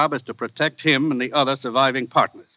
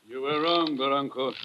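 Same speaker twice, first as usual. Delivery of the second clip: cold quiet menace; 6 dB quieter than usual. Acted. Killer answers coldly.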